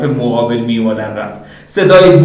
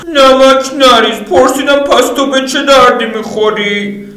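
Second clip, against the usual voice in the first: high, slow and louder, leaning on پرسیدم; Lydia, insisting; 13 semitones higher, 4 dB louder than usual. Acted. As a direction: repeat the question, now annoyed. Lydia repeats harder.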